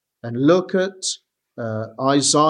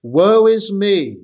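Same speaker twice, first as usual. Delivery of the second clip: slow, louder lament as Isaiah; an understated prophet's anguished cry; lamenting woe; 4 dB louder, slower than usual. Acted. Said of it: "This is Isaiah speaking".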